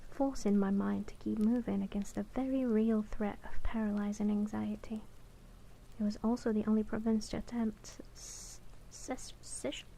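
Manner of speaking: measured audiobook-style reading; narrating a novel in first person; story narration. A narrator's reading. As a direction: read the fantasy tale aloud, evenly paced. Reads the novel aloud.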